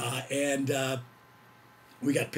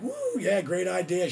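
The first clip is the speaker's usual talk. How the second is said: high whooping yeah; party cheer; 5 semitones higher, 3 dB louder than usual. Retold or imitated. Friends at the bar cheering a round of shots, high whoop. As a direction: whoop it up like a drunk crowd.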